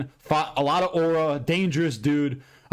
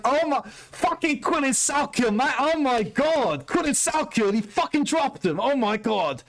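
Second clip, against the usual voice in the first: ecstatic mock reaction; 11 semitones higher, slower than usual. Retold ecstatic reaction to knockout.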